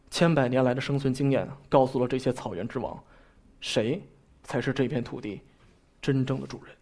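a light take on a nature documentary voice; Zhao Zhongxiang. Retold or imitated. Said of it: "赵忠祥老师那深沉富有磁性的嗓音".

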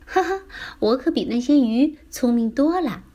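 put-on boastful child. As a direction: boast playfully like a confident child. Child boasts in voiced story.

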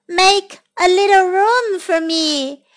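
high-voiced little newcomer; calling out. Voice asking, before deep-voiced take.

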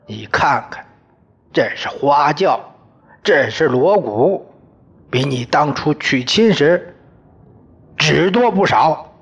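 father-in-law shouting down the disgraced son-in-law; furious shouting. Acted. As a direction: rant at him with scorn. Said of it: "挥着手向我喊".

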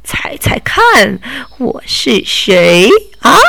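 slow, teasing whisper; sly whisper. Acted. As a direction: breathe it out like a secret reveal. Robber reveals himself slyly.

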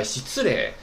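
失礼 said slowly as the correct model reading; correct pronunciation. Shown as a demonstration. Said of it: "这个单词注意了". (再次慢读正确的失礼)

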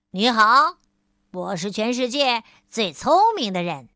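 大声骄傲地打招呼; 得意洋洋地大喊自我介绍; 喊着打招呼. Acted. 聪明先生喊道 again. (聪明先生又向路人高声夸口)

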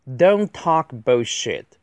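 slow, evenly spaced words; deliberate word-by-word delivery; slow model reading. Shown as a demonstration. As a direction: read it out carefully for learners. Slow model reading, then faster repeat.

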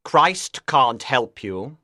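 slow, low-voiced cold Lucifer; icy devil's pronouncement. A narrator's reading. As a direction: state it coldly in a deep, measured voice. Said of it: "Lucifer said coldly".

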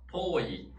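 遠い said as tōi, o held; long o. Shown as a demonstration. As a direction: stretch the o in 遠い, then add i. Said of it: "都是o来表示长音的". (遠い的o读长音)

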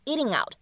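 "eating out" run together as one word; linked words. Shown as a demonstration. Teacher shows natural linking, "eating out" joined smoothly. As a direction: glide from "eating" straight into "out", no gap. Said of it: "可以自然的连读一下".

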